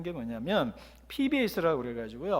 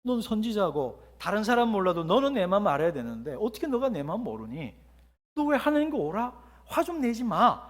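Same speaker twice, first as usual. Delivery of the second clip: sad voice; 2 semitones higher than usual. Shown as a demonstration. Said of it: "슬퍼서 할 수도 있습니다".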